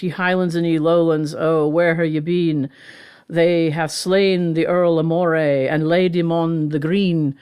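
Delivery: put-on lightly Scottish recitation of an old ballad; Scottish ballad accent. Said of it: "set in a Scottish accent".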